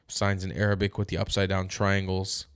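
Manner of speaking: sleepy, yawning through words; drowsy voice, stifling a yawn. Real, not acted. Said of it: "I'm so sorry for my incessant yawning".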